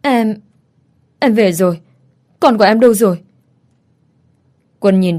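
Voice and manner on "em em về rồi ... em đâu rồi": gasping out the words between breaths; halting and out of breath, voice climbing; breathless, broken voice. A narrator's reading. Mother rushing in to ask for her child, breathless and halting. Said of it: "giọng nói đứt quãng".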